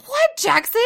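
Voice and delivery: high, loud exasperated call. Retold or imitated. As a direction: call out fed up. Exasperated mom.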